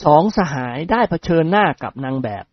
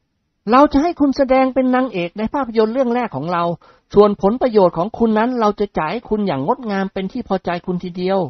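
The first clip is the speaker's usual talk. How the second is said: higher, eager persuading voice; eager suitor voice; 6 semitones higher than usual. Acted. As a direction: coax her eagerly. Nikorn persuades the model. (เสียงชายหนุ่มกระตือรือร้นเกลี้ยกล่อม)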